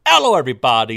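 put-on loud, booming Italian accent greeting. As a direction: greet the viewers like an Italian chef. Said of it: "this very deep Italian accent".

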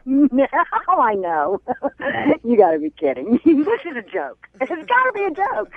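real laughter breaking between short phrases; laughing in disbelief. Real, not acted. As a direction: laugh it off as an obvious joke. Laughs off news of a ban.

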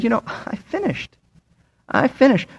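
soft, contented sigh of relief; hushed, imagining a finisher looking back; quiet satisfaction. Acted. Paul voiced looking back, satisfied.

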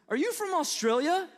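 put-on high questioning kid voice; lightly voiced curious student; imitating a child. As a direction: ask it like a baffled pupil. Kids asking about Australia.

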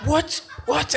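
high, squeaky double what; shocked disbelief. Retold or imitated. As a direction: yelp it out in sudden shock, laughing. Retold shock at the text.

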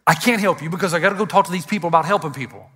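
quick, laughing through the imagined brush-off; laughing mock reply. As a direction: rush it out with a laugh at the absurdity. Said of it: "I can't look to her and say".

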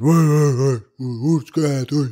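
bang the table for her death; angry mob demand. Acted.

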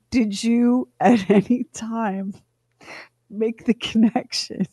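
deliberate, drawn-out interrogation; slow, pointed questioning. Retold or imitated. Mother questions her child about the toilet, slowly and pointedly. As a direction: spell it out slowly, with pauses.

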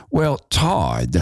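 a light imitation of Metzger saying "Well, Todd". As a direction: lightly mimic Metzger's calm address. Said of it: "that's how he spoke".

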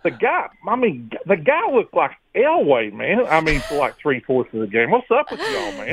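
sarcastic mock praise, rising. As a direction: pretend outrage, sarcastic. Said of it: "doesn't know your sarcasm".

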